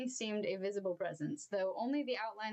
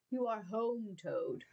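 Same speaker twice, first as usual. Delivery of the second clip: sudden gentleness; slower than usual. Acted. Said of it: "with a sudden gentleness".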